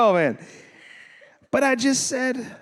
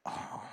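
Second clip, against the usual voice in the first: soft, breath-like "oh"; sigh; 19 dB quieter than usual. Retold or imitated. Preacher showing own reaction to conflict, sighing. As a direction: let out a quiet sigh. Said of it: "this is what I do. I go".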